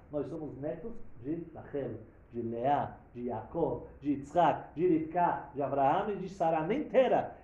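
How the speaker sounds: each name called out loud; loud preaching. Real, not acted. Preacher calling out the forefathers' names to the congregation, loud. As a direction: proclaim the ancestors with force.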